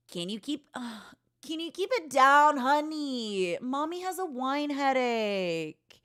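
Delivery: a hint of a tired mother scolding; mild mock scold from a hungover mother; mom voice. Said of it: "release my inner actress".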